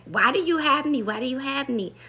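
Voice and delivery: girl yelling at the officer, mild mock yell; retold yelling. Girl protesting her arrest at the police, mild mock yell. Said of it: "just yelling".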